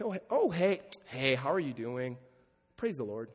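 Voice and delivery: lightly put-on churchy greeting, drawn out; church-friend greeting. Greeting friends from church, mock churchy. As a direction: imitate a slow, pious hello. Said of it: "you talk to your friends from church".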